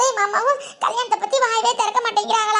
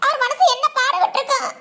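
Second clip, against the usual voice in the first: weepy account with small sobs; hurt, crying as she recounts; tearful. Acted. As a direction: lament to a friend through tears. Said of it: "இதுக்கெல்லாமா அழுகுவாங்க?".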